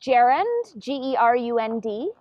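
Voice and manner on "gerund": "Gerund" starting with a j sound; soft-g gerund. Shown as a demonstration. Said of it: "I pronounce it gerund".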